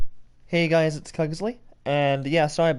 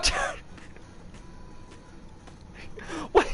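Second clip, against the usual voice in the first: breathy laugh into a what; stunned laughing what; laughing disbelief; 12 semitones higher, 8 dB quieter than usual. Real, not acted. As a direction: laugh it off in shock. Disbelieving at puppet.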